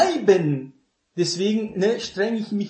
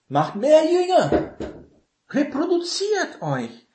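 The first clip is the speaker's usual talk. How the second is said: ringing proclamation; 11 semitones higher than usual. Acted. Preacher calling his disciples to multiply, in a high ringing proclamation. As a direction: proclaim it like a command from the pulpit.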